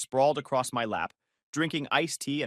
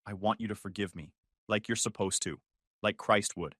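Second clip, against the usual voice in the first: hushed, teary pleading, much softer; tearful plea; 4 semitones lower, 7 dB quieter than usual. Acted. Haley begging her ex to forgive her, softly tearful. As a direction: beg for forgiveness through held-back tears. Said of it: "Her eyes filled with tears".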